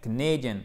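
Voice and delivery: "Canadian" with stressed "nay", falling end; second-syllable stress. Shown as a demonstration. Teacher repeating for students, "Canadian" stressed on second syllable. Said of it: "Accent tonique sur la deuxième syllabe".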